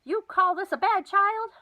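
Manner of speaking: put-on loud, high old grandma shout; a loud grandma hollering down the phone line. A narrator's reading. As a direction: holler it so the phone has to be held away. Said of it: "while she shouted".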